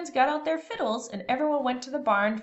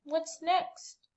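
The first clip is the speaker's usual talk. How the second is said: eager question; 7 semitones higher, 5 dB quieter than usual. A narrator's reading. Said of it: "he asked".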